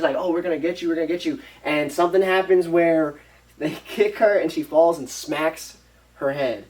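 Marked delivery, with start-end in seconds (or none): 0.2-1.4 higher, taunting retold threat; gloating threat. Maid threatening the family she caught, gloating. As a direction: taunt them like you caught them out.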